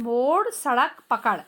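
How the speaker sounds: मोड़, सड़क, पकड़ said slowly with a flapped ड़; slow demo. Shown as a demonstration. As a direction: stretch मोड़ and सड़क so the flap is heard. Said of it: "फिर ड का प्रयोग कैसे होता है".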